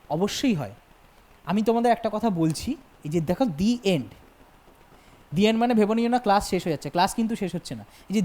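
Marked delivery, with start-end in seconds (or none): 3.4-4.1 long "dee" for "the" before end. Shown as a demonstration. Teacher showing the vowel rule to students, "the" said dee. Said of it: "উচ্চারণ করি the".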